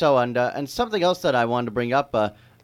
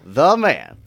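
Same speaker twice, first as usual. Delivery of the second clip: announcer build-up; 8 dB louder than usual. Acted. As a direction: roll out the guest's name like a game show host. Announcing the guest grandly.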